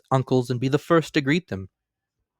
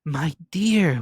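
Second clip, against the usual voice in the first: gently higher husband; mild answer; 7 semitones higher than usual. A narrator's reading. Husband to angry wife, mild gentle answer. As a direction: soften it to calm her. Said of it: "was Bob's mild answer".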